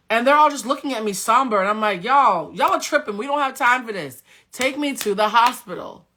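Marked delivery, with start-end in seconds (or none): 2.0-6.1 mild mock yell, raised pitch; urgent, insistent demand to relatives; retold screaming demand. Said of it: "And I'm screaming".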